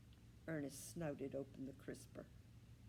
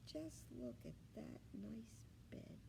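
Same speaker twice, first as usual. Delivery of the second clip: slow whispered envy; envious whisper; 5 semitones higher, 6 dB quieter, slower than usual. A narrator's reading. Millie eyeing the puppy's bed, slow envious whisper. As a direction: whisper it with longing.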